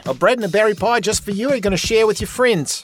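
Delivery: high, sing-song innkeeper woman welcoming a guest; folksy innkeeper lady. Acted. Innkeeper Batima greeting a new guest, high and homey. GM voices Batima offering pies.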